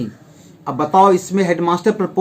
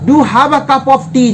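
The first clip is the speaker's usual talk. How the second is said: slow, higher "Do have a cup of tea" with weight on Do; teacher demonstrating emphatic Do, slow and higher; 4 semitones higher, much slower than usual. Shown as a demonstration. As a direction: press the invitation warmly with Do. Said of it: "जोर दे के बोल रहे हैं".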